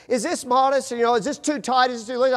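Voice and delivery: high, light imitation of his wife; mimicking his wife. Husband mimicking his wife at the dressing room, high and playful. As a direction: play the wife fishing for approval. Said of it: "And she would go".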